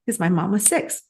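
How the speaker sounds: on the verge of crying for real; near tears. Real, not acted. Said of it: "oh God, I'm gonna cry".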